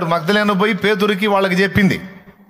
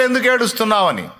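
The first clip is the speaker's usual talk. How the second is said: angels asking inside the tomb, a little raised; 3 semitones higher than usual. Retold or imitated. Preacher voicing the angels asking Mary why she weeps, lightly lifted. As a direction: ask it as the angels would, slightly lifted. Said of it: "లోపల దూతలు అడిగారు".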